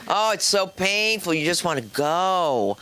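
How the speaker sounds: slow, stretched words; drawn-out suffering. Acted. Comic describes dancing with an unwanted guy, drawn-out complaint. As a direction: drag it out in mock agony. Dramatizes painful long dance.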